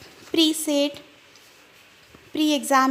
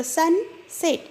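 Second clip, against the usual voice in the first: slow syllable demo; 3 semitones higher than usual. Shown as a demonstration. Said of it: "you can clap for two times".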